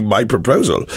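put-on amused echo in a German accent; put-on German accent through amusement. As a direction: repeat it in mock German-accented English. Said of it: "allowed to do the German accent".

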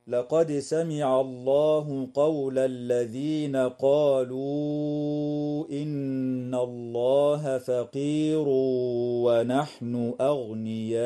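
slow chanted verse with long madd on قالوا إن; Quran recitation. Shown as a demonstration. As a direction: recite slowly, stretch the vowels. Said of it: "تظهر الدال عند السين". (تلاوة مجودة بالمد)

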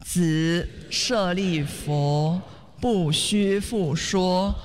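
slow, measured chanting of scripture; solemn syllable-by-syllable recitation at half speed; sutra recitation. Real, not acted. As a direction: lead the congregation in reciting, drawing out every syllable. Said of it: "我们一起来念诵".

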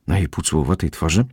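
usual speaking voice

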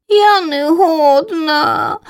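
high, very slow, tearful little voice; crying chick. Acted. Tired chick weeps to mother she can't fly. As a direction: sob it out like a frightened child. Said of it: "з плачем на дзьобачику".

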